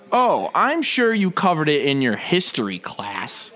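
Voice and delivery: slow, condescending Harvard snob; smug preppy voice. Acted. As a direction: talk down to him slowly. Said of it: "Harvard preppy douchebag".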